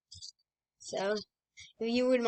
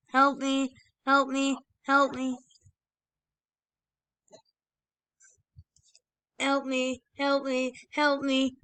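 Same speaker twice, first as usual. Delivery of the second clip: repeated higher pleading calls; overlapping cries; 4 semitones higher than usual. Real, not acted. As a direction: call out for help again and again. Calling teammates while downed.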